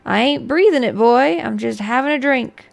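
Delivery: put-on loud, grinning old woman; old sorceress voice. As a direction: cackle it like an amused crone. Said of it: "a wide, wet grin".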